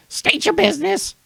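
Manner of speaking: high stern guard voice; female guard voice. Acted. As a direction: challenge them from the tower. GM voicing female half-elf guard.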